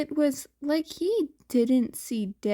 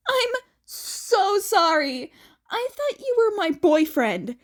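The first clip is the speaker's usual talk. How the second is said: tearful apology; 7 semitones higher, 4 dB louder than usual. Acted. Annabeth apologising to Jason for mistaking him, tearful. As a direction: let the voice crack as you apologise.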